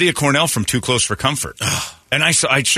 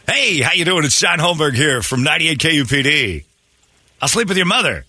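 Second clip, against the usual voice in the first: impression of John Holmberg; 3 semitones higher than usual. Impressionist does the host for his listeners, lightly mimicked. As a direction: mimic the host's cheerful on-air intro. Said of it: "your impression of John Holmberg".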